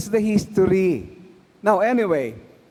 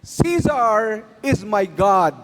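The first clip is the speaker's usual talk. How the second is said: mock oath of allegiance; slower than usual. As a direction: proclaim it like a sworn oath, slowly. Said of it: "and I will say".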